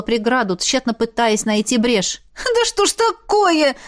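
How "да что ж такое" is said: much higher, slow, tearful complaint; near tears. A narrator's reading. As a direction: voice close to breaking. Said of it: "чуть не плача сказала она". (чуть не плача)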